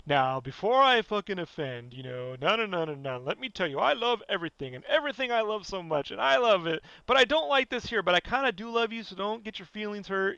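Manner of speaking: lightly mocking over-apologetic preamble. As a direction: imitate someone nervously cushioning an opinion. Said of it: "with an apology before you start".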